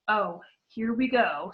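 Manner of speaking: bitterly. Acted. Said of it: "Nearly Headless Nick bitterly".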